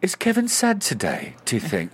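high-pitched imitation of a fretting woman; worried co-star. Co-star asking after a masked colleague, mock-worried. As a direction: mimic her anxious question, pitched well up. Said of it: "she'll turn around, break character".

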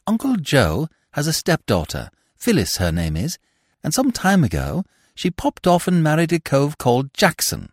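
lightly voiced chatty young fool; a hint of a breezy silly-ass, lively pitch; Freddy explaining. Voices Freddy telling his tale.

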